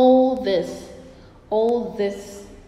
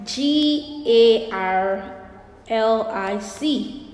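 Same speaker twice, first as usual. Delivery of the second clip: slow spelling aloud; slower than usual. Shown as a demonstration. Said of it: "Garlic is spelled".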